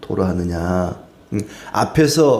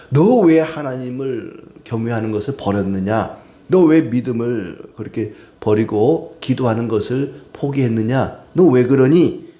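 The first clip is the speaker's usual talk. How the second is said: Eliphaz scolding; 3 semitones higher than usual. Acted. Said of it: "막 그렇게 책망을 하죠". (엘리바스가 욥을 꾸짖듯, 끝에서 더 크게)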